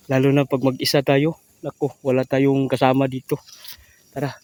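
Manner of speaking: loud, nervous and rushed; psyching himself up in fear; scared. Real, not acted. Scared alone in the dark.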